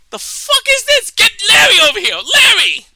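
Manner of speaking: loud, high-pitched calling out; hammed-up shouts across a room; mock baffled shouting. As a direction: yell for a coworker in comic bewilderment. Acted TSA men calling colleagues.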